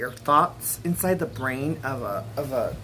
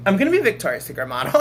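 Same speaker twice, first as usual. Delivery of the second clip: bold declaration; 3 semitones higher, 6 dB louder, much faster than usual. Retold or imitated.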